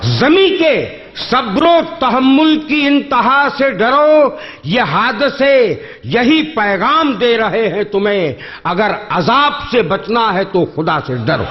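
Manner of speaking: measured, lingering verse delivery; poetry recitation. Acted. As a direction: recite each line slowly for effect. Closing quatrain recital.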